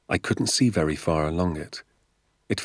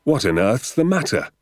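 higher, urgent question; raised voice of an alarmed father; crying out; 6 semitones higher, 4 dB louder than usual. A narrator's reading. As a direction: cry out in concern. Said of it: "he cried".

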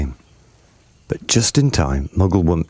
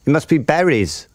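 high, lilting bird voice; singsong bird; 10 semitones higher than usual. A narrator's reading. Bird guessing the food, high singsong. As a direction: sing out the guess in a high pitch. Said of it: "sang the roly-poly bird".

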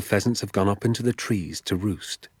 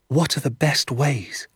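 Danny's question; 6 semitones higher than usual. Acted. Danny asks his father.

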